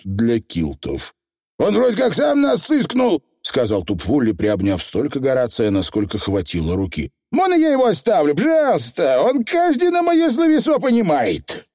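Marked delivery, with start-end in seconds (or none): 1.6-3.2 squeaky little Scottish pixie; high, rough tiny rascal; Feegle voice. Acted. 7.3-11.7 squeaky pixie begging; high little rascal pleading; pleading Feegle. Acted.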